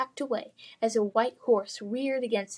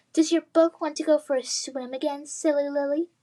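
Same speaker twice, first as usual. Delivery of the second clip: taunting; 5 semitones higher, 3 dB louder than usual. Acted. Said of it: "Adam jeered".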